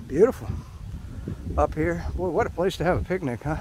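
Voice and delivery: breathing hard after stairs; winded from climbing, still talking. Real, not acted. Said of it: "Sorry, I'm breathing a little hard".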